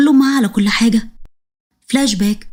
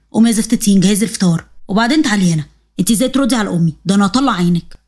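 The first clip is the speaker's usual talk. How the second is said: lowered, harsh orders; low, harsh husband; husband's voice; 3 semitones lower than usual. Acted. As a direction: bark her out of bed, voice dropped.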